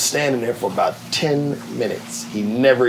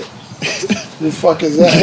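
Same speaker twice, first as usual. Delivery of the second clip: imitating Martin; 5 semitones higher, much slower than usual. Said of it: "he said".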